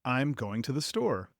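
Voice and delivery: "I am" shortened to one word, "I'm", with "going to" kept whole; casual contraction on "I'm", full "going to"; contracted form. Shown as a demonstration. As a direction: run "I'm" together as one syllable. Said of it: "we say".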